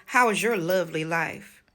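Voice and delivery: imitated condescension, measured and pointed; condescending. Daughter repeating her mother's question, condescending. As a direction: mimic a patronizing question. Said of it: "Very, very condescending".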